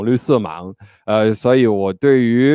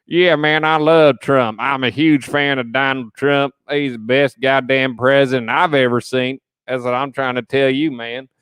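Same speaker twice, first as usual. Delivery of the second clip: mock Australian accent; 3 semitones higher than usual. Host imitates an Australian Trump supporter, mock Australian accent. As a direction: play an Australian fan with a put-on accent. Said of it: "like an Australian person being like".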